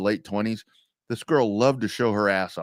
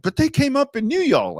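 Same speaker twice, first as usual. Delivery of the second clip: quoted wife, pitched much higher; 13 semitones higher, 3 dB louder than usual. Retold or imitated. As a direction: raise the voice high for the wife. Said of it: "she's like".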